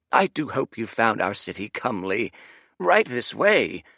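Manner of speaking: suddenly all flattery; fawning server. Acted.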